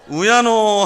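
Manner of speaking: loud, high Gyeongsang exclamation; Gyeongsang dialect. Shown as a demonstration. Pastor shows "what shall I do", loud Gyeongsang accent. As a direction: cry it out with Gyeongsang intonation. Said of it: "경상도 말로 세 글자로".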